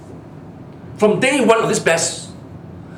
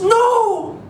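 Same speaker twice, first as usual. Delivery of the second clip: much higher, squeaky mock prosecutor; 11 semitones higher, much slower than usual. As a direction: ham up the prosecutor's meek backing-down. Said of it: "And the D P P says".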